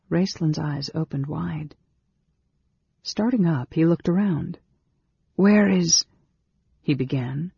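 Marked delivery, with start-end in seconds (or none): 5.3-6.0 higher, louder, abrupt question; startled waking. A narrator's reading. Mage starting awake searches for someone, startled. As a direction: blurt it out, then break off.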